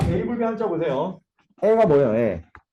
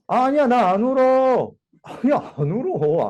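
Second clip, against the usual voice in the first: higher, drawn-out protest of not crying; tearless denial; 5 semitones higher than usual. Acted. Jilted lover to departing boyfriend, acted insistent denial. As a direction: insist you're fine, voice pitched up. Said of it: "죽어도 울지 않겠다라고 말하는 거야".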